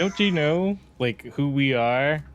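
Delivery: charming boast. Acted. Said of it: "to charm the goblin and just say".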